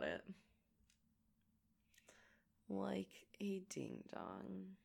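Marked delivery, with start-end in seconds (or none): 2.7-4.8 whisper. Real, not acted. Self-mocking aside.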